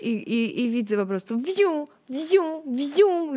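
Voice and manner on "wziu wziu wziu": higher, swishing whoosh noises; whooshing sound. Retold or imitated. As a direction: imitate runners zipping past. People rushing past her.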